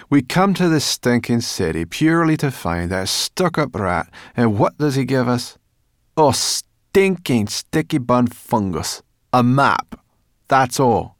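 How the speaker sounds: high, loud, grumbling little creature; huffy creature voice, a touch theatrical; cross brownie voice. Acted. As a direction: snap it out like a fed-up brownie. Sorrel speaks, cross and grumbling.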